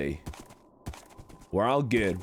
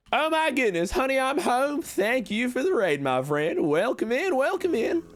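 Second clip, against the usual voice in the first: excited raid welcome; 12 semitones higher than usual. Acted. Streamer welcoming raiders into the town, high and excited. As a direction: throw your arms open to the raiders. Greeting incoming raid in character.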